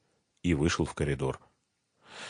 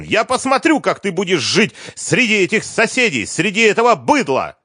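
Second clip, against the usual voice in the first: very high, loud sneering rant; contemptuous scream; 13 semitones higher, 5 dB louder than usual. A narrator's reading. Liza sneering at neighbours.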